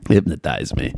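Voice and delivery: low mock Chicago accent; Kevin Bacon's Chicago accent. Podcaster cracking up over the film line, mock Chicago accent. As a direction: parody a movie plea with Chicago vowels. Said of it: "What is he doing with his accent?".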